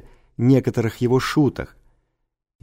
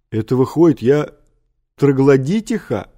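mildly menacing, affronted question; 2 semitones higher, 5 dB louder than usual. A narrator's reading. Madam Халупа challenges the old teacher, a touch menacing. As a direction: demand it loudly on the last word. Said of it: "грозно спросила мадам Халупа".

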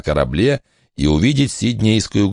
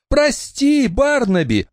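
voice breaking; slower than usual. Acted. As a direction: voice catching on the apology. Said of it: "голос у неё осёкся".

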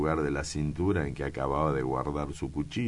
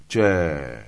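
startled exclamation; 7 dB louder than usual. Acted. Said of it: "exclamó Gaete".

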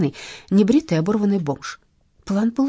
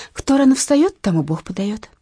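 preachy; 4 semitones higher, 5 dB louder than usual. Acted. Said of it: "ответила я наставительно".

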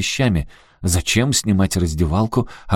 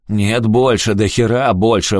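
louder, roared demand; roaring; 4 semitones higher, 5 dB louder than usual. Acted. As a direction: roar it out greedily. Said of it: "взревел Рики".

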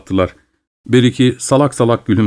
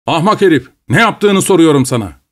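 raised, higher angry voice; angry scolding; 6 semitones higher than usual. Acted. Landowner scolding the peasant, in a raised angry voice. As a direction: scold the fool from above.

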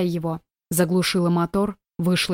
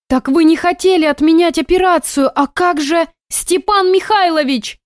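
high, bewildered questioning; a nurse who cannot make sense of it; puzzled nurse; 9 semitones higher, 5 dB louder than usual. A narrator's reading. Nurse asks the mother about the operation, high and bewildered.

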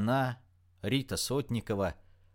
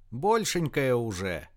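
louder, slow, drawn-out call; shouted retort; 2 semitones higher, 5 dB louder, slower than usual. A narrator's reading. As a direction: shout it up slowly at her. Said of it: "крикнула разбушевавшейся женщине Рита".

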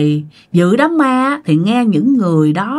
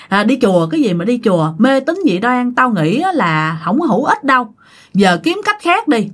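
scoffing. Retold or imitated. Friend repeats scoffing.

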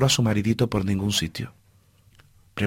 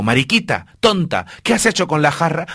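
scolding; 3 semitones higher, 4 dB louder than usual. Acted. Queen scolds the maid.

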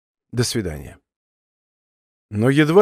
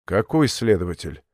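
changed tone; 5 semitones lower than usual. A narrator's reading. Королёв, alarmed by the mention of an investigator, lower and wary. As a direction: suddenly lower and guarded. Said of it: "уже другим тоном спросил Королёв".

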